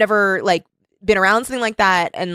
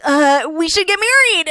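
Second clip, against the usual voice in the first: higher, lightly put-on blurting voice; eager young man; 7 semitones higher than usual. Tad blurting a proposal to Kelly, lightly put-on eager voice. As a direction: blurt it out like a lovesick boy. Voicing crazed lovestruck Tad.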